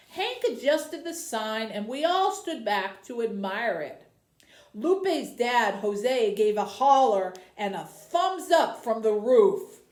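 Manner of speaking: story narration. Acted. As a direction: tell the story like a children's librarian. Librarian reads novel aloud.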